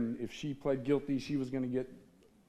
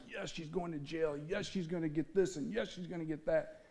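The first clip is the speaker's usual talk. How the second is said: hushed, slightly raised mock gloat; 3 semitones higher, 5 dB quieter than usual. Speaker voices the gloating he didn't feel at court, mock gloating. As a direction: softly imitate a private, vindictive cheer. Imagined gloating at her sentence.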